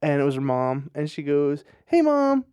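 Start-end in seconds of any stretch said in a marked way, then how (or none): 1.9-2.5 much higher, bright mock-chipper greeting; all chipper. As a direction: greet mom sweetly, imitating the teen. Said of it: "like, all chipper".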